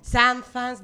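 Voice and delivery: "Sanz" tried high and loud, its ending muddled into f or s; strained loud tries at "Sanz"; failed pronunciation attempts. Shown as a demonstration. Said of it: "yo lo intenté".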